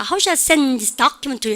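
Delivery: "send" and "document" standing out from reduced words; stress on content words. Shown as a demonstration. Teacher showing what to catch, stress on "send" and "document". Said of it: "send하고 document 듣고".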